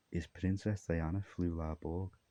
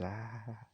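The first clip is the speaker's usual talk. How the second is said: soft mock gasp; 5 semitones higher, 8 dB quieter than usual. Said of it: "Then he says".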